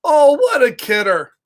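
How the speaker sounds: a lightly voiced cheeky pigeon brushing it off; breezy denial, only lightly put on; snarky pigeon voice. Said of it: "And now the pigeon's talking".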